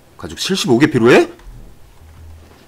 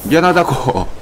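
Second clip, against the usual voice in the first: loud, high panicky apology; frantic apologizing; 6 semitones higher, 5 dB louder than usual. Real, not acted. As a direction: beg for mercy in a rush. Frantic apologies to a strong creature.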